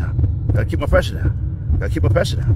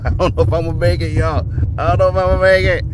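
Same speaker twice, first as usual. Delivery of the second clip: fast nervous laughing; laughing panic; 5 semitones higher, 4 dB louder, faster than usual. Real, not acted.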